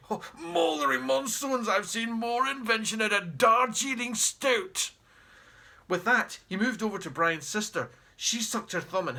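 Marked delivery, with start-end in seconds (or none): 0.1-4.9 put-on haughty old explorer, barking at the family; pompous great uncle. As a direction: look down your nose and bellow. Jeremy scoffs.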